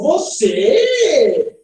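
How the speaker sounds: high, stretched, swooping disbelief; startled question-exclamation. Acted. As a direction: act out the mother's shock, swooping up and down. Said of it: "um susto".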